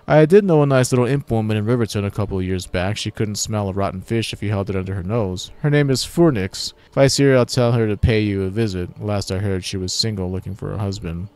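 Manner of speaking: hero voice. Acted. Hero tells of imp.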